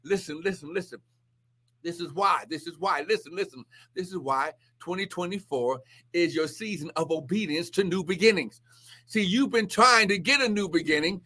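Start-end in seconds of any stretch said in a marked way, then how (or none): 0.0-8.6 hushed urging. Real, not acted. Drops voice to draw listeners in.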